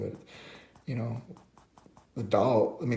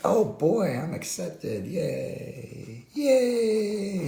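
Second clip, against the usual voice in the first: high, hammed-up squeal of joy; mock-tearful glee, very high, ending on a loud cheer; Rudolph; 11 semitones higher, 6 dB louder, much slower than usual. Rudolph finally accepted by Santa, high overjoyed voice. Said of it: "Rudolph's like".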